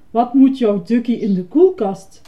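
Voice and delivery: loud, incredulous question; baffled exclamation. Acted. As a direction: demand an explanation in disbelief. Bert baffled by the fridge suggestion. (luide, verbijsterde vraag)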